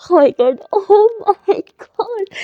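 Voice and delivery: overjoyed gasp. Acted. Character overjoyed at confession.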